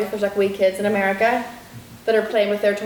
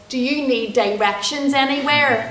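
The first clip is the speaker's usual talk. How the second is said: kind stranger; 4 semitones higher, slower than usual. Retold or imitated. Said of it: "he was all".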